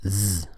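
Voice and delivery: "Z" as a sustained buzz, not the letter name; voiced Z sound. Shown as a demonstration. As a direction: draw "Z" out as a voiced zzz. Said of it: "there's no Z sound".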